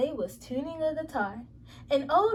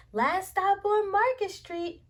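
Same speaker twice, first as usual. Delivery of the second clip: higher, louder announcement down the bus; called out; 6 semitones higher, 3 dB louder than usual. Acted. Bus driver announcing the final stop to passengers, called out high and loud. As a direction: call out the stop to every passenger. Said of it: "Mister Dennis called".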